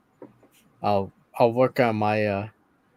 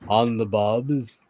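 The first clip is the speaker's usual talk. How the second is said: a hint of Arnold Schwarzenegger's Austrian intonation; low, lightly voiced Arnold Schwarzenegger delivery; a touch of Arnold's Austrian accent on the line; 3 semitones lower than usual. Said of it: "it was Arnold".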